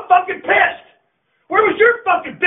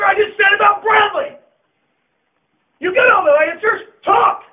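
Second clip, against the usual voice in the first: furious yell; 4 semitones higher than usual. Real, not acted. Coach yelling at seniors who talked back, furious. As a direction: tear into them, voice straining.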